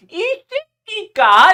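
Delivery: put-on loud furious snap at the boy; angry yell. Girl snapping at the boy who killed her hen, loud angry yell. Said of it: "이러면서 빡 밀어버린 거죠".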